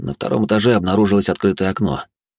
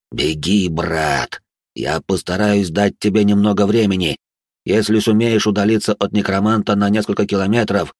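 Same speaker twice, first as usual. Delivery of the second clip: ghost voice; 2 semitones higher than usual. Acted. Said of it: "Потусторонним голосом".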